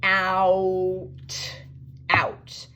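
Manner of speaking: put-on breathy demo of "outside" for kids; whispered word. Shown as a demonstration. Teacher whispers outside to the class. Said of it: "two syllables".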